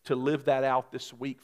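prayer. Acted. Pastor prays over congregation.

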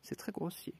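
stern rebuke. Acted. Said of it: "d'un ton sévère".

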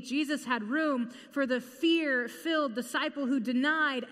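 building, emphatic preaching. Acted. Preacher rising to the climax before the congregation, emphatic.

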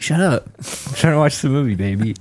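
mock irritated scolding. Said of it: "I'd just be like".

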